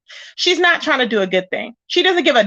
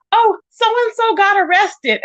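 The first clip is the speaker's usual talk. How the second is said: higher, slow mock gossip; 6 semitones higher, slower than usual. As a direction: drag out the gossip teasingly. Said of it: "and she's all".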